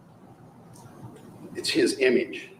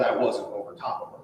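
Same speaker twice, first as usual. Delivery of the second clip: mocking repeat; 5 dB quieter than usual. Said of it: "He said".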